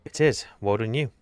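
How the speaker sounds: bitter. Real, not acted. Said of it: "Why do you sound so bitter?".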